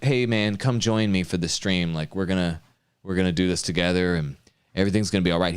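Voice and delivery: mock laid-back invite. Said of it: "He's not just saying".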